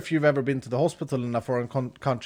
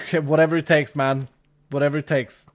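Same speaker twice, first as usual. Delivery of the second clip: put-on American accent. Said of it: "I had this very cool American accent".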